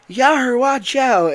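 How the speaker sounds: high, loud pirate shout; pirate warning. Retold or imitated. Foxy warning of the falling crate, a loud pirate shout. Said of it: "he's like".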